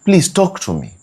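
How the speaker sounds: high pleading please; pleading wife. Retold or imitated. Wife begging her silent man to talk, pleading. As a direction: beg him to talk, rising high. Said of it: "she keeps on saying".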